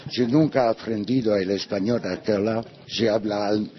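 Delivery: broken Spanish with a foreign accent; a foreign painter struggling through Spanish. Real, not acted. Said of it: "Perdón, mi español está horroroso".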